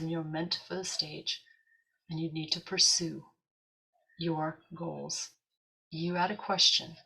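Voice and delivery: measured, lightly imitated English accent; understated English pronouncement. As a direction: deliver a message with a hint of English. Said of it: "how he said it in this accent".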